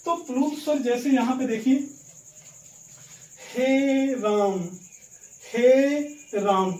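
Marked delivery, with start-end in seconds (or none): 3.5-6.7 हे राम stretched very slowly, the vowel held long; drawn-out pluta vowel. Shown as a demonstration. Teacher demonstrating a long-held call, drawn out. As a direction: hold the आ of राम far longer than normal. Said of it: "ज्यादा समय लेके यहाँ पे उच्चारण".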